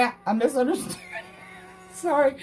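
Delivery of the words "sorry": near-tearful laughing sorry; helpless giggling apology, higher. Real, not acted. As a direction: laugh till it almost cracks. Still laughing at goats mix-up.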